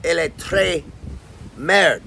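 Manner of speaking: French with a strong California R; American-accented French reply; Californian-accented French. Retold or imitated. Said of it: "my accent's so strong in French".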